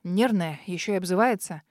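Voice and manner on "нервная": ordinary delivery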